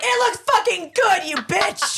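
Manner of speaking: fake-furious praise, laughing; mock outrage. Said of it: "me and Krista are like".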